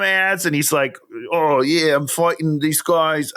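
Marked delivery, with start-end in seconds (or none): 1.3-3.3 badly faked accent of an actor; half-hearted go at an actor's accent; terrible Anthony Starr accent. Co-host imitates an actor in mobile game ads, badly faked accent. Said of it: "I can't do his accent".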